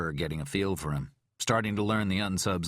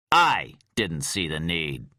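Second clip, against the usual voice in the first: snapped; 6 dB louder, slower than usual. Acted. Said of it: "Poling snapped".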